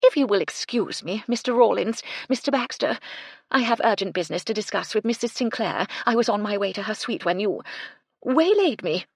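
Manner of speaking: high, loud and haughty; lofty and dismissive, looking down. Acted. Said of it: "she said as haughtily as she could manage".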